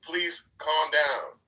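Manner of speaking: calming the ladies down. Retold or imitated. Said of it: "we need you to raise your fucking voice and say".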